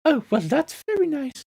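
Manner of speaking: high little flower voice; squeaky flower. Acted. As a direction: answer in a small squeaky voice. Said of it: "a small squeaky voice".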